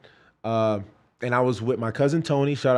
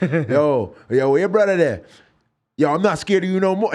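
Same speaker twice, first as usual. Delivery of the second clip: put-on loud old-head voice; old dude calling out; old man; 3 semitones higher, 4 dB louder than usual.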